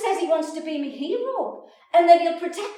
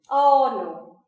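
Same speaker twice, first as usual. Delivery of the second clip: loud outburst; 8 dB louder, slower than usual. Real, not acted. Confessing the fart to the audience, loud and rising. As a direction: belt out the gross reveal.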